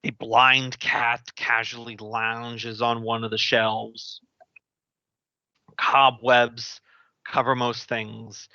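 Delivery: slow, spooky scene setting; GM scene narration. Acted. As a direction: set a gloomy scene slowly. Game master scene setting.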